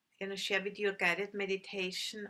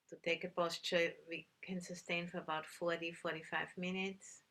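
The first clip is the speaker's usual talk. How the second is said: calm, unhurried meditation guidance with long pauses; measured instructions in short, spaced phrases; guided meditation; 3 dB quieter than usual. Real, not acted. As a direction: guide listeners gently into stillness, leaving long silences.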